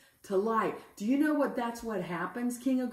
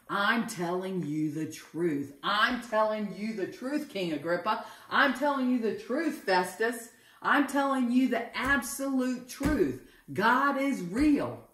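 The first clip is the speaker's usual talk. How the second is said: fervent insistence. Acted. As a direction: insist harder with each repetition. Paul insists with building fervour.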